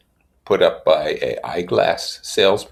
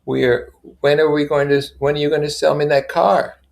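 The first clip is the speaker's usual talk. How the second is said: brisk Tom voice; 8 semitones higher, 6 dB louder than usual. Acted.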